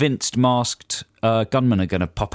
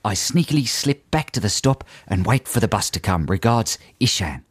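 put-on Australian letter-reading; jokey Australian accent; mock Australian accent. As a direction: read it out in a hammed-up Aussie accent. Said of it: "I think my accent's really on it".

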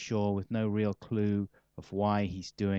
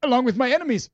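high, booming mock-evil declaration; sudden loud comic outburst of villainy; mock villain shout; 13 semitones higher, 10 dB louder, faster than usual. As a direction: shout it out like a gloating villain, hammed up. Mock villain boast after burying pipes.

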